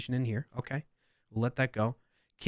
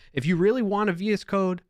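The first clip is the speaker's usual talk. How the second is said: put-on higher-pitched touch of New York accent; 6 semitones higher than usual. Developer reading a user's comment aloud, light New York accent. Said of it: "I added my New York accent".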